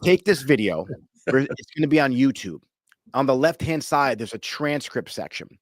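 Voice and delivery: measured instructions with pauses between phrases; deliberately slow. Real, not acted. Host instructing a French viewer with weak English, slow and deliberate. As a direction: spell out each step for a non-native listener. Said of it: "So I'll say it slow".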